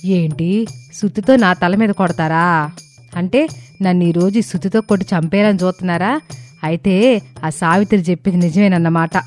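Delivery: high-pitched, mildly alarmed questioning; fearful wife. A narrator's reading. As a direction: question your husband in a high, scared voice. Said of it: "శారద భయంగా". (భయంగా, హెచ్చు గొంతుతో అడగడం)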